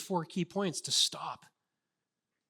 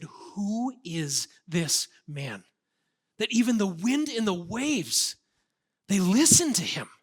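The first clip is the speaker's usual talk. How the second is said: awed question rising louder; awestruck disciples; 2 semitones higher, 4 dB louder, slower than usual. Acted. Disciples in awe after the storm, rising amazed voice. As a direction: marvel at the man who stills the storm. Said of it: "They were terrified".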